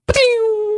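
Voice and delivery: high-pitched bullet ping; imitated ricochet. Shown as a demonstration. Podcaster mimics a dropped gun firing, high pinging noise. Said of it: "it always makes this one".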